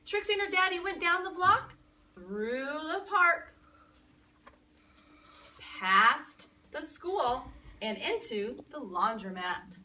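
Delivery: put-on slow, drawn-out storybook reading to a child; read-aloud narration. A narrator's reading. Teacher reading to children, slow storybook voice. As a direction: savor each place on the walk, slowly.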